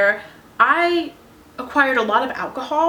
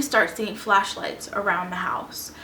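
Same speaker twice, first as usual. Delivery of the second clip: whispered, hushing the story down; breathy storyteller's whisper for suspense; suspenseful whisper; 2 semitones lower, 6 dB quieter than usual. Acted. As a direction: drop to a whisper as if hiding from the cops. Suspense as cops search house.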